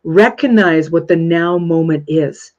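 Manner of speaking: Recognize what the now moment is, said slowly, each word weighted; slow emphatic repeat. Shown as a demonstration. Teacher repeating key line to her audience, slow and emphatic. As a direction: drive the point home, slowly. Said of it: "I'm gonna say that again".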